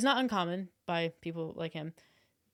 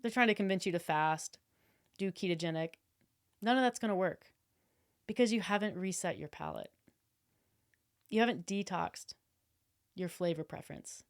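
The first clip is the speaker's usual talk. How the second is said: confident influencer sales talk; guru pitch voice. Shown as a demonstration. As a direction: sell it like a diet guru. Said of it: "If I was like".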